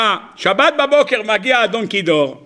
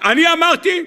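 indignant husband; 10 semitones higher than usual. Acted.

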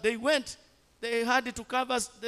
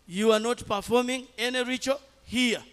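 higher and louder, hammering the refusal home; emphatic repeat; 3 semitones higher, 5 dB louder than usual. Retold or imitated. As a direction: say it again, now forcefully. Repeated rebuke to relatives.

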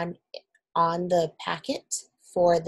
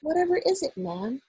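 put-on higher, polite elderly servant; old maid voice; 7 semitones higher than usual. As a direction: gently ask as an old maid. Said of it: "the voice of an oldish person".

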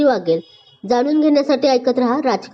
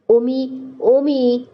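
calling out; 2 semitones higher, much slower than usual. A narrator's reading. Friends call after him.

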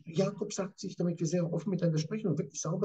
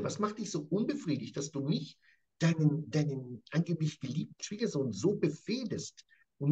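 raised, accusing voice as Jakob; Jakob confronting angrily. Acted. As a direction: confront him hotly as Jakob. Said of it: "Und er sagt ihm deutlich".

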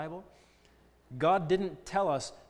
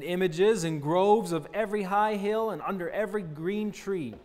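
forceful scripture reading; 4 dB louder than usual. Acted. Preacher reading Ahijah's prophecy to congregation, proclaiming. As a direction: declaim the prophecy to the room. Reads verse aloud.

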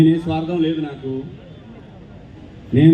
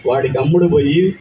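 lightly lowered, firm rousing film-speech voice; film dialogue delivery; 3 semitones lower than usual. Pretend. Actor asked by a fan for a film dialogue, mild rousing declamation. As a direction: declaim it like a hero's political monologue. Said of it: "nineties biopic one dialogue".

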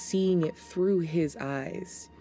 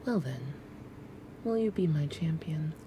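whispering spider queen; 4 dB quieter than usual. Acted.

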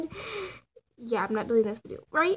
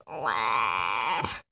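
mouth shape demo; 14 semitones lower than usual. Shown as a demonstration. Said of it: "And then I go like".

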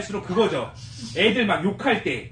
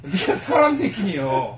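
laughing mock quote; slower than usual.

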